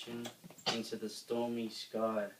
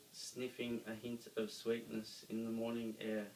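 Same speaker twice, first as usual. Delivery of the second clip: ordinary delivery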